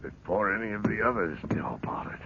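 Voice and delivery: hushed whisper breaking into a cry; whispered secret. Acted. Geoffrey's eerie whispered tale.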